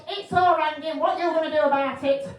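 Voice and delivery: loud, high complaining caller voice; indignant caller squawk; irate caller. Retold or imitated. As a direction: play the outraged neighbour moaning down the phone.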